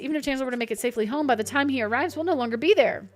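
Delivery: lightly voiced professor reading his diary; a touch of a fretful professor's diary; reading diary aloud. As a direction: read the entry like a worried old scholar. Reads in-game diary aloud.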